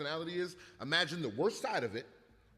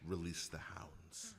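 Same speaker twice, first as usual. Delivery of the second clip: haughty villain command; 11 semitones lower, 11 dB quieter, much slower than usual. Acted. Villain order, slow low.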